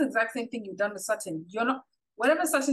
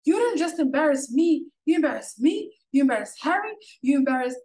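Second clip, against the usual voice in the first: imitating drunk Rinna; 4 semitones higher, 5 dB louder than usual. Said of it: "Jiggy Jiggy".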